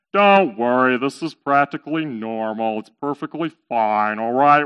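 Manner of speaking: low, laid-back camel voice; reassuring camel. Acted. Camel calming his panicking owner, reassuring. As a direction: soothe him in a low voice.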